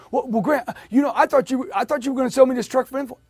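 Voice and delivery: high, stammering mock protest; flustered customer. Customer protesting price at the close, flustered and high.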